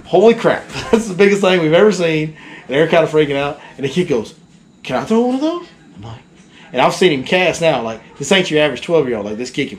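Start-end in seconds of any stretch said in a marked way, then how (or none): 0.1-2.3 amazed, laughing through the words; a retold burst of surprise with a laugh; excited retold exclaim. Dad and kid see huge fish. 4.8-5.7 a higher, lightly voiced eager kid asking. Kid asks to throw bait.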